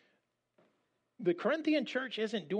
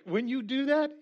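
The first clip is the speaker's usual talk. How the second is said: higher, louder apostle's warning; pitched-up, loud mock scolding; voicing Paul, emphatic; 8 semitones higher, 4 dB louder than usual. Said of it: "Paul's like".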